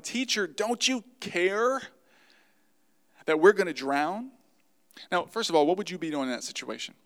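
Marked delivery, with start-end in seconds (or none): 0.0-4.3 raised, drawn-out cry for help; mildly acted shout of alarm; shouted plea. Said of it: "woke him up shouting".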